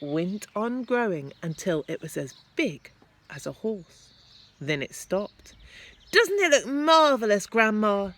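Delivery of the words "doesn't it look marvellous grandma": put-on high, loud boyish call; shouting excitedly. A narrator's reading. George shouting up to Grandma about the hen. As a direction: call it up full of wonder. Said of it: "George shouted".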